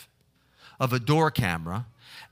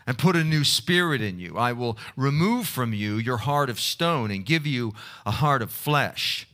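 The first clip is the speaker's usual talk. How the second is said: measured, solemn Bible reading; scripture reading. Acted. Scripture reading before prayer.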